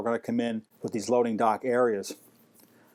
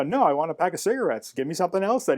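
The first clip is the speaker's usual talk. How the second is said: higher-pitched insistence, at ordinary volume; retold stubborn protest; 4 semitones higher than usual. Narrator refusing to leave without cigarettes, mock insistent. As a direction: stand your ground, acting out the argument. Narrator argues back with angry owner.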